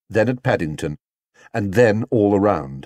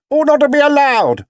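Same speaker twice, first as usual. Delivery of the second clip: high, loud outraged shout; loud indignant cry; 7 dB louder than usual. A narrator's reading. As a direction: yell it in outrage. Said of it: "shouted another voice".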